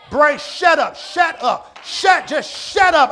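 stern falling shut up, slowed on the last one; firm command to the brain. Pretend. Preacher ordering his brain to hush, firm and stern. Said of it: "you gotta shut that stuff, shut it down".

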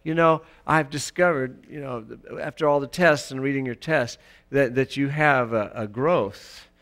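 doctor giving a diagnosis. Retold or imitated. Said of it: "like the doctor says".

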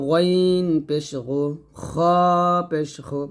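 গইন and খ heavy and rasped from the throat's end; thick throat-end letters. Shown as a demonstration. Teacher models ghain and kha, heavy গইন and খ. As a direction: round and thicken গইন পেশ গু, খ পেশ হু. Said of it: "গলার শেষ থেকে মোটা করে".

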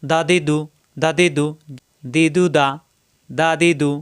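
দা দি দু in short even beats; দা, দি, দু with no stretching; quick short vowels. Shown as a demonstration. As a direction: keep each vowel of দা দি দু brief. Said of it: "হরকতের উচ্চারণ তাড়াতাড়ি".

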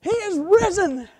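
loud, high, drawn-out proclamation; booming Easter call from an excited preacher; fired-up pastor. Retold or imitated. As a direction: proclaim it big and slow, fired up from the pulpit. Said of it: "oh, he was so fired up".

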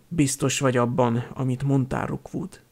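halk, visszafogottan gonosz kérdés; kérdezd halkan, fenyegető fölénnyel. A narrator's reading. Gonosz úr halkan faggatja szolgáját. (gonosz úr halk faggatózása)

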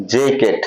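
"জ্যাকেট" slowly, with a soft j and long ey; soft-voiced j opening "জ্যাকেট"; soft J sound. Shown as a demonstration. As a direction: draw out the first syllable of "জ্যাকেট". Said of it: "তবে soft sound হবে".

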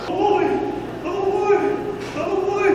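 squeaky high cartoon bird voice; high excited crow voice. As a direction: chirp it out high and eager.

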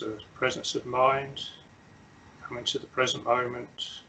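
unhurried meditation guidance with long silences; measured instructions, leaving long pauses to settle; guided meditation. Real, not acted. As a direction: guide them gently into stillness, phrase by phrase.

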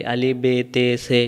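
letters named the wrong way as বে, তে, সে; showing the mistaken reading বে তে সে; wrong letter names. Shown as a demonstration. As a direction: demo the incorrect names বে and তে instead of বা and তা. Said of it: "এরকম যারা পড়বেন তাদের উচ্চারণ সহি হবে না".

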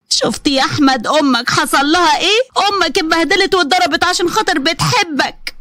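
lightly voiced manipulative mother; scheming mother-in-law. Mother-in-law feigning victimhood.

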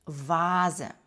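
вазе with a voiced v and long a; German Vase ending on "e"; V read as v. Shown as a demonstration. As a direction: begin вазе with a clear v. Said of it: "Також ми вимовляємо звук В".

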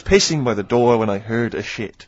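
lightly voiced French accent on "pissing" and "shit". Shown as a demonstration. Host repeating the Allo Allo line in a mild French accent. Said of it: "I'm talking in a French accent".

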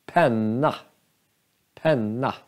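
penna with a long, strong N; stress on the N. Shown as a demonstration. Teacher showing force lands on the N. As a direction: lean on the NN in penna. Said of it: "den har mera kraft".

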